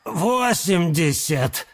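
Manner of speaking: slow, held-back bid; hiding tension. A narrator's reading. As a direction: keep the nerves out of it. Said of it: "стараясь скрыть напряжение".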